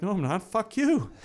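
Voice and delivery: retold angry comeback; defiant retort. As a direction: tell the boss off, half laughing in the retelling. Retold quarrel telling off boss.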